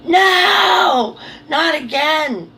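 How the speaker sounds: high loud no, then a slow not again; seeing bubble, a loud high no; panicked cry. Retold or imitated. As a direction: cry out in dismay. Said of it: "I went".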